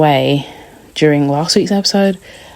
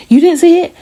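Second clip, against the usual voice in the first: imitating; 13 semitones higher, 6 dB louder than usual. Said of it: "And Tawanda's like".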